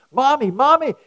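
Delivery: put-on high, loud excited child calling Mommy; excited little girl. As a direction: squeal it like a thrilled little girl. Child voiced in story, excited.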